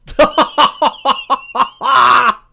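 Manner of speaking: loud burst of laughter. Real, not acted. Loud laugh after joke.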